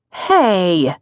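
mock-stern "Hey"; pretend firm voice. Wife warning husband staring at her, mock-firm. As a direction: put on a playfully firm warning. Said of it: "in her pretend firm voice".

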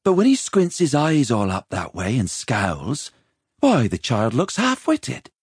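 chambermaid's critical musing, drawn out at the end; disapproving inner thought. A narrator's reading. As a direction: size up the boy with disapproval. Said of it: "she thought".

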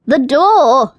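loud, urgent rabbit cry; desperate plea. Acted. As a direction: yell for help while half drowning. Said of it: "the rabbit pleaded".

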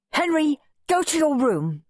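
high-pitched scolding order; furious shouting. A narrator's reading. Furious Mum sends Henry to his room, shouting. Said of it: "shouted Mum".

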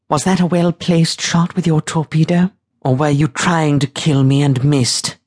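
high, haughty interrogation; imperious captain demanding an answer; lofty lady captain, challenging. A narrator's reading. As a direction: question them in a high, clipped, lofty voice. Voices Katerina questioning the crew.

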